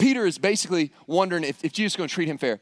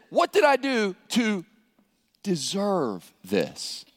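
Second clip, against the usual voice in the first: serious, bitter lament; much slower than usual. Acted. Wronged spouse in a bitter divorce, acted lament. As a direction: start pleading, drop to a heavy slow finish. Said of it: "In very serious moments of life, they talk like this".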